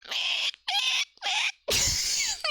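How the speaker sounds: very high, squealing frustrated groan; pig-like squeal of frustration; frustrated noise. Real, not acted. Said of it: "that's me frustrated".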